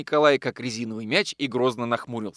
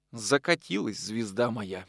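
softer, slow mournful line; sad; 5 dB quieter, slower than usual. Acted. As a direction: sigh it out in grief. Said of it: "печально сказал он".

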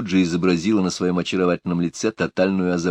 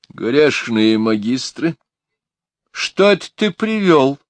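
high, slow amazed cry; astonished at the puppy; surprised lady; 7 semitones higher, 4 dB louder, slower than usual. A narrator's reading. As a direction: gasp out the question, delighted. Lady sees a dog, amazed.

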